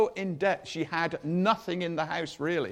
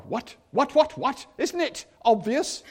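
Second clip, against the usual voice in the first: mildly hammed-up disbelief, rising in pitch; incredulous; 4 semitones higher than usual. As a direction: fire back in mock bafflement. Acts out baffled reply to Jesus.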